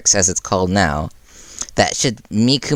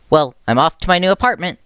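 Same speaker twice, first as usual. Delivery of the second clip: cheerful declaration; 9 semitones higher than usual. Acted. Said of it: "Mikumo declared".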